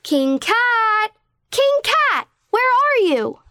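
high calling into the forest. Acted. Princess Gato searching the forest, calling out high. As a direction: call out searching.

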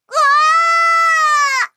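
high, loud, startled cry; frightened scream. Acted. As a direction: yelp while being swept away. Blown away by the sneeze.

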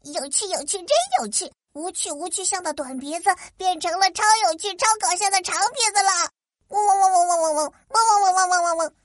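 lightly voiced teasing fly; buzzing fly voice. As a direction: buzz and tease like a fly. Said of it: "嗡嗡嗡地说".

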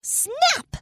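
quick, high-pitched snap; snap sound effect. A narrator's reading. Sound of peel hitting the trunk.

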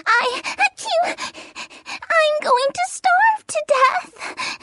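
sad. Acted. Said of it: "sad and hungry".

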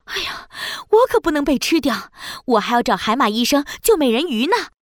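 fast, alarmed and urgent; hurried alarm. Acted. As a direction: blurt it out while fleeing. Mother flees shark. (慌张着急地说)

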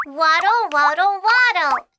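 bouncy rhythmic chant; sing-song refrain. A narrator's reading. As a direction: chant it like a nursery rhyme.

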